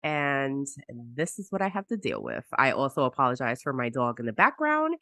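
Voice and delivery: hoarse voice from a cold; talking through a cold, throat raw; sick voice. Real, not acted. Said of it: "your sick voice is sexy".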